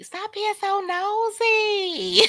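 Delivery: high, slow, laughing through the words; telling Latte to stop being nosy, laughing hard. Real, not acted. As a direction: scold the viewer while cracking up. Laughs while scolding viewer.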